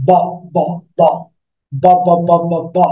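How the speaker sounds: repeated বা with throat vibration; voiced B drill. Shown as a demonstration. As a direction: buzz the বা from the throat. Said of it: "Like a".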